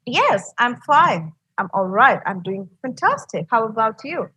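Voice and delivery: mild pep, clearly spoken with lilting intonation; peppy. Shown as a demonstration. Teacher models answering a greeting to interest the listener, mildly peppy. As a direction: speak clearly with a touch of peppiness. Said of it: "there's a peppiness in your voice".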